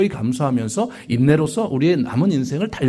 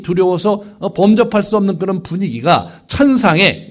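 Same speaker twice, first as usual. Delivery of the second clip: high, insistent sermon voice, loud at the start; emphatic preaching; 5 semitones higher, 6 dB louder than usual. Real, not acted. Preacher describing God's glory filling the temple, emphatic preaching. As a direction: open loudly and keep the pitch raised.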